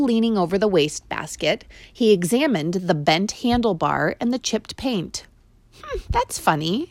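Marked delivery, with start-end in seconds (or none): 5.8-6.9 put-on higher, musing boy voice; puzzled boy. A narrator's reading. Boy examining the bent handlebar, puzzled. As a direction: wonder at it. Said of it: "he remarked aloud".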